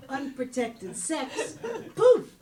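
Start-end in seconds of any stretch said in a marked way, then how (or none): 1.9-2.3 sudden high, loud burst; explosive exclamation. Acted. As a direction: pop it out like a magic trick. Exclaims the moment of conception.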